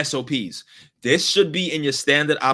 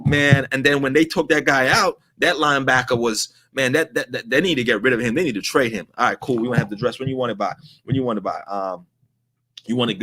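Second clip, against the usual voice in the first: distracted clerk; 6 semitones lower than usual. Clerk still split between two conversations.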